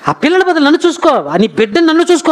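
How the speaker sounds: high-pitched imitation of a pleading husband; comforting appeal. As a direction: plead to be her child instead. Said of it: "ఎంతగా ఆదరిస్తున్నాడో". (బతిమాలుతూ ఓదార్చే భర్త అనుకరణ)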